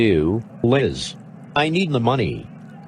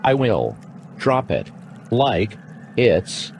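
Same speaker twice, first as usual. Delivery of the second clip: robot voice. Acted. Actor plays robot.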